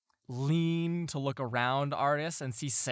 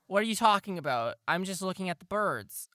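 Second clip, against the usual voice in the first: brother voice, laughing; 7 semitones higher than usual. Acted. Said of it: "And he's like".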